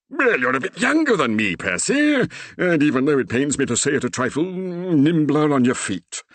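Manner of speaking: put-on high, loud earnest old vicar; determined Reverend. A narrator's reading. The Reverend telling Percy he must save his daughter, determined. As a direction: insist grandly on rescuing her.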